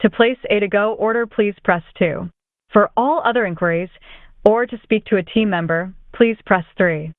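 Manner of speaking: recorded automated phone greeting; calm, even, recorded menu read-out. Real, not acted.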